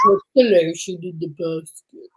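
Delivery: low menacing killer line; creepy killer voice. Retold or imitated. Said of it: "such a creepy voice".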